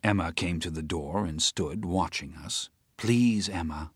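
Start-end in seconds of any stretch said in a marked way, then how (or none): 3.0-3.9 pleading. Acted. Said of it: "I pleaded".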